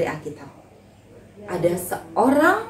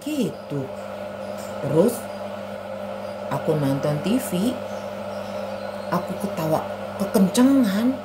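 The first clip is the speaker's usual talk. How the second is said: put-on glum puppet boy Anto; 2 semitones lower, 6 dB quieter than usual. Anto tells Ani about being scolded, glumly.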